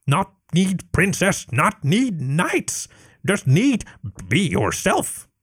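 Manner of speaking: high, broken-grammar kobold voice; a little lizard cheering up her queen; earnest kobold. Acted. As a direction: coax the dragon kindly. Kobold encourages dragon.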